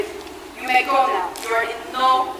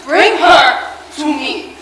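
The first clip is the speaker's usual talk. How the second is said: commanding; 7 dB louder, much slower than usual. Acted. Vampire hunter commanding the maid.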